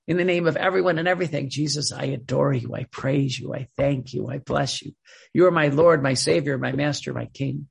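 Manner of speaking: quick devotional recital, falling away at the end; recited prayer. Shown as a demonstration. Teacher models a trusting prayer to Jesus, reciting devoutly. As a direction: run through a familiar prayer in an even litany.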